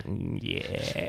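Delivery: tight-lipped. Acted. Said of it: "grits his teeth and, like, nods".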